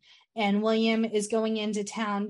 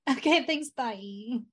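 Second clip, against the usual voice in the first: mock dismissal; 3 semitones higher than usual. Answering the Count's marriage boast, mock dismissive.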